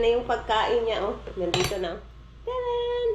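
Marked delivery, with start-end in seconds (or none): 2.4-3.1 excited ta-da. Real, not acted. Presenting, greeting toddler.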